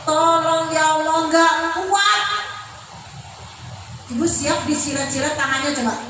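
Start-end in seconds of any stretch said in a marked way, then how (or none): 0.0-2.2 acted, drawn-out cry for help; half-sung mock wail of pleading; agonised pleading. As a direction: beg God like someone in torment, without shouting. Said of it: "menjerit-jerit saking kesakitannya sehingga memelas kepada Allah".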